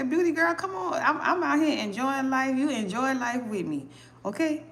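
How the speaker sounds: high, eager asking voice; pleading friend. Pretend. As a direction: beg to be let in. Voicing a friend's request.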